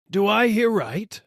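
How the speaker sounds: can't believe his ears; startled dealer. A narrator's reading. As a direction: dealer asking if he hears a customer.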